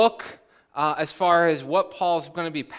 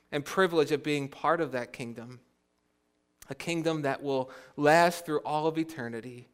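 softer, measured prayer with pauses; public prayer; 3 dB quieter than usual. Real, not acted. Pastor asking God's help for the church, quiet prayer. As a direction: pray gently, phrase by phrase.

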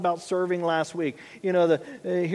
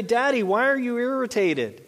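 a hint of a little boy's raised voice; son's question; 5 semitones higher than usual. Young son questioning his dad in the car, lightly imitated child. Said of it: "he'll even say".

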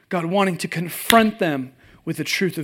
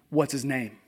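loud, laughing mock threat; laughing overblown vow to fight a first grader; mock furious dad; 5 dB louder, slower than usual. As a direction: ham up a protective dad ready to fight. Dad's mock rage text retold.

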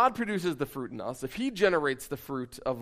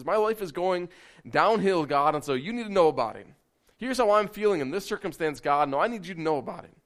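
raised, insistent appeal to God; acted frank prayer; 4 semitones higher, 4 dB louder than usual. Believer telling God about everyday troubles, acted insistent plea. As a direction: imitate someone urgently telling God their troubles.

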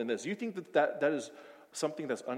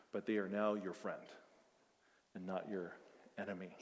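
sincere closing on mercy and love; tender preaching; 4 semitones lower, 6 dB quieter than usual. Real, not acted. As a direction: let it fade into reverence. Preaching God's mercy softly.

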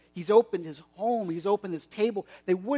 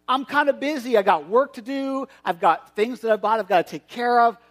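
higher and louder, eager show-off; excited bragging; 4 semitones higher, 5 dB louder than usual. Acted. Guest brushing off the invitation, excitedly bragging about his oxen. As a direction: gush about the new oxen like a proud owner.

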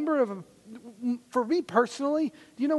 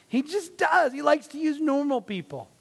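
laughing; 7 semitones higher than usual. Real, not acted. Laughing loud mid-sermon.

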